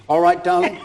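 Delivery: high, teary voice breaking into a laugh; mock tearful. Actor recalls a friend giving in to the director, mock tearful high voice. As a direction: play her giving in through tears, half laughing. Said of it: "through her tears".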